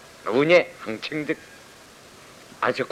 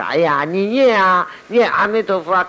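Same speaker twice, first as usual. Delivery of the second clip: mock the pushy bystander, voice raised; loud mimicry of someone urging a chant; mimicked urging; 6 semitones higher, 6 dB louder than usual. Mimics bystanders urging a dying person.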